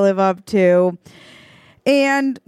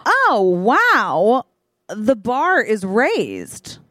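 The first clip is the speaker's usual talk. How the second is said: slow, drawn-out amazement; awed; 2 semitones higher, much slower than usual. Retold or imitated. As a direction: savor the words in awe. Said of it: "I go".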